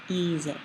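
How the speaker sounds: "ize" as EE-zeh with a buzzed z. Shown as a demonstration. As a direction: voice the z between the vowels of "ize". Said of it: "an S makes a Z sound".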